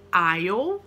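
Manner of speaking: Aisle said as "ile", no S sound; silent S in aisle. Shown as a demonstration. Teacher models a tricky word for students, aisle with silent S. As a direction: Aisle rhyming with "mile", S left out. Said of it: "não pronuncia o S".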